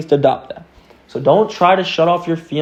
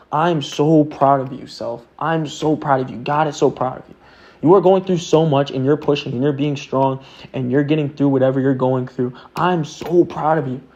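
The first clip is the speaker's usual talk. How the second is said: gentle self-praise. Shown as a demonstration. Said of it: "adopt that trait of".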